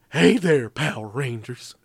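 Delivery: put-on cartoon villain greeting; cartoonish monster impression. Monster greeting the Power Rangers, cartoonish put-on voice. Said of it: "I do that im-, impression".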